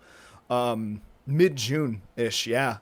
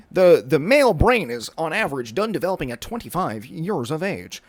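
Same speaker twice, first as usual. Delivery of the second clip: a touch of a lecturing scientist, a little louder; nerdy scientist bit; 3 semitones higher, 5 dB louder than usual. Pretend. Vlogger in glasses playing a Half-Life scientist, mock lecturing. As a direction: put on glasses and lecture like a lab guy. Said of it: "I had to do a physical bit".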